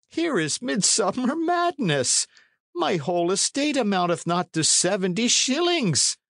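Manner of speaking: put-on very high-pitched old man's protest; aghast cry. A narrator's reading. Condall pleading poverty to the knight, high cry. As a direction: protest in a high, dismayed wail. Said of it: "cried Condall".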